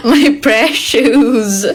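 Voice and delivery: very slow, drawn-out eerie line; creepy whisper. Shown as a demonstration. Streamer showing how her soothing voice sounds like horror, slow and creepy. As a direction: linger on it like a horror villain. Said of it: "Soothing pang horror".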